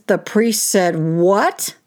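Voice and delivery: slow, drawn-out disbelieving question; incredulous mother. Retold or imitated. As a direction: stretch it out in shock. Mother hears what priest said.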